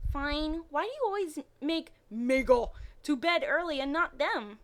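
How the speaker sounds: put-on high, sulky little boy; whiny child voice. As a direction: complain like a small kid. Harry voiced as child complaining.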